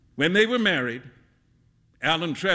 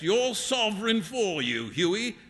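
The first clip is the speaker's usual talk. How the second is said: higher, lively teasing voice; Alan, amused teasing friend; 7 semitones higher than usual. Acted. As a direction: tease your friend in a pitched-up, animated voice.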